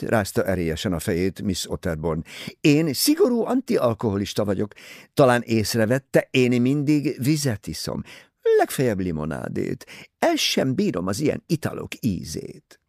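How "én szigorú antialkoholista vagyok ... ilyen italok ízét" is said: higher, louder gushing society lady; Mrs Otterborn's voice. Acted. Vain novelist pressing her book on Poirot, high and gushing.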